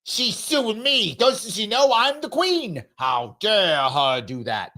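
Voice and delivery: lightly voiced indignant queen, slow and haughty; a hint of a spoiled royal, slowed down; mocking an entitled queen. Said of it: "Look at how mad she is".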